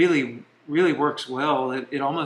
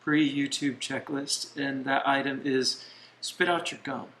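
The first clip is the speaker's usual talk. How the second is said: talking while chewing gum; words around a wad of gum. Real, not acted. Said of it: "y'all have to watch us chew on our gum".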